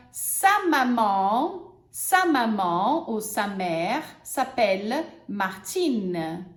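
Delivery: slow, clear example; teacher models the sentence. Shown as a demonstration. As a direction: model it slowly. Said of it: "por exemplo".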